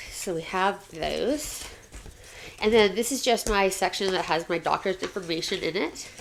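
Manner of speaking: talking with a dry mouth; parched mouth from talking. Real, not acted. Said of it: "my mouth is so dry from talking already".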